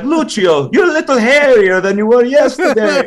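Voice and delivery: high, loud mock villager; concerned villager. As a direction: call him out in comic surprise. Villager addresses the cursed Italian man.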